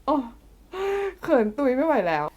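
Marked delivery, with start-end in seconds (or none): 1.2-2.2 flustered giggle. Real, not acted.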